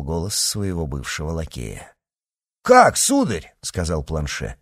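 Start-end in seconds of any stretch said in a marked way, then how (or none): 2.6-3.5 high, louder cry of surprise; astonished. A narrator's reading. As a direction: pitch leaps up in amazement. Servant recognizes his former master.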